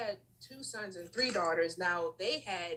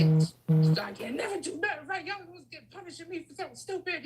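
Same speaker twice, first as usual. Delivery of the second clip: mad; 6 semitones higher, 6 dB louder than usual. Retold or imitated. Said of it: "I was just like".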